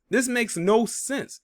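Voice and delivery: slow, high incredulous rise; high disbelief. Real, not acted. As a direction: stretch it out, pitch climbing in disbelief. Repeats line in disbelief.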